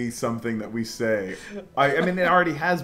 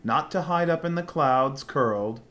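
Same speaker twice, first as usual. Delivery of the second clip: theatrical rhyming recitation; dramatic letter reading; 2 semitones higher than usual. Acted. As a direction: read the letter like a stage poem. Reads character's rhyming letter.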